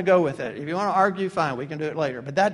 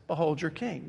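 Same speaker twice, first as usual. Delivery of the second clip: hushed proclamation; 3 semitones lower, 7 dB quieter than usual. Acted. Pilate's line, quietly delivered.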